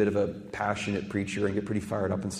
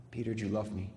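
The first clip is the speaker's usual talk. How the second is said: hushed; 3 semitones lower, 10 dB quieter, faster than usual. Acted. Jesus asks a second time.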